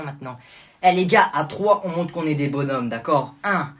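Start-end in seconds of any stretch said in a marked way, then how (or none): 3.4-3.7 loud high rallying shout; shouting the attack; battle cry. Acted. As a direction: charge with a war cry. Leading gang charge.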